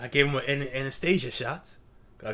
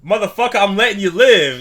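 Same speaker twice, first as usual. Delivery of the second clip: mock angry yell; 7 semitones higher, 12 dB louder than usual. Yelling at a bug.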